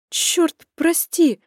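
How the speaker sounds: high, loud gasped "прости!"; breathy exclamation. A narrator's reading. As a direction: breathe it out in dismay. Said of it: "выдохнула я". (выдохнула, в смятении)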